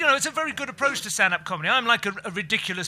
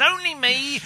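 Harry Enfield character; 7 semitones higher, 3 dB louder, slower than usual. Retold or imitated. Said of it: "that Harry Enfield character that pops his head around doors and says".

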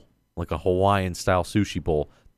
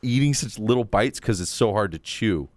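laughing; 5 semitones higher than usual. Retold or imitated. Own quote, laughing.

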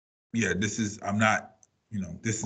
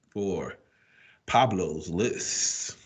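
ringmaster; 3 semitones lower, much slower than usual. Acted. Segment intro, drawn out title.

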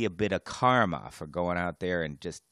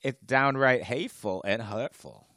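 higher, louder mock-indignant fish; speaking for the fish; 6 semitones higher, 9 dB louder than usual. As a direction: protest loudly as the wronged fish. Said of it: "I'm gonna have to represent the fish".

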